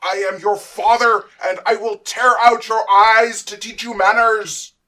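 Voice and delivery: furious high, very loud tirade; screaming. Acted. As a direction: scream it like an enraged tyrant father. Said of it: "Then Kronos began screaming".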